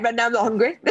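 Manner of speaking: laughing through a stunned reply. Retold or imitated. Retelling her dazed reply to her coach, laughing. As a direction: giggles while saying it.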